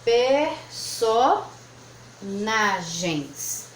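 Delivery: per-so-na-gens drawn out slowly; "personagens" split syllable by syllable, very slow. Shown as a demonstration. Teacher to pupils, sounding out syllables slowly. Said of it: "A segunda possibilidade".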